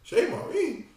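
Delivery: slow, laughing mock outrage; can't believe the nerve, laugh it out; man told to go to Chez Maurice, laughing in disbelief. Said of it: "You like".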